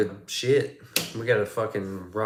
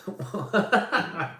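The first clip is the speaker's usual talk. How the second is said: pained yelp; 10 semitones higher than usual. Retold or imitated. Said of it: "I was like".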